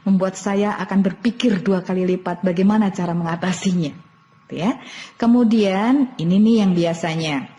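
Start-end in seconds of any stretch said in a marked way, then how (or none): 0.0-3.9 positive reframing. Shown as a demonstration. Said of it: "Anda katakan".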